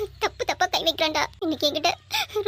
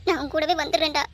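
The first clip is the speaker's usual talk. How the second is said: crying. Acted. Grieving woman talks to dead lover.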